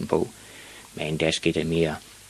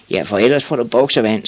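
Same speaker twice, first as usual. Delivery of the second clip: storybook yell, louder and higher; moderately raised bully shout; threatening yell; 4 semitones higher, 6 dB louder than usual. A narrator's reading. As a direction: call out the threat like a schoolboy. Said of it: "skreg nogen".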